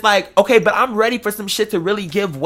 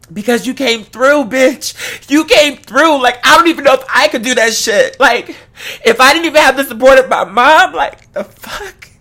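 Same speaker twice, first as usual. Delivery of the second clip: hyping up friend; 3 semitones higher than usual. Retold or imitated. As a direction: gush with pride, stretching the big words. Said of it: "I compliment him and love one of him".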